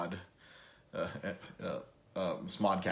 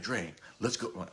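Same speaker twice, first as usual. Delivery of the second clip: slow, softer buddy impression; Sean; 5 dB quieter, slower than usual. Buddy urging him along after the panel, imitated Sean voice. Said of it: "do it with my Sean voice".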